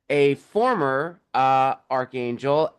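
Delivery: "former" drawn out for emphasis; stress on "former". Real, not acted. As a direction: lean slowly on the word "former". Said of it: "emphasis on former".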